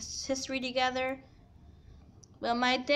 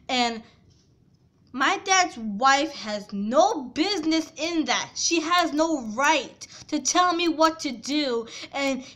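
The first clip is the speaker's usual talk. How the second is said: raised, heated voice, pushing each point; angry rant; 2 semitones higher, 5 dB louder than usual. Retold or imitated. Daughter defending her choice to her stepmom, angry and loud. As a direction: tell the stepmom off, loud and fed up.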